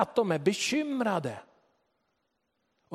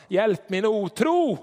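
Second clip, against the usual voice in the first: crying out; 4 semitones higher, 5 dB louder, slower than usual. Shown as a demonstration. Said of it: "Hur många av oss skulle ropa".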